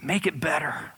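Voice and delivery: loud, high, begging prayer building in force; crying out to God, rising; desperate plea. Pretend. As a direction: plead harder and harder for it to stop. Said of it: "everything within me says".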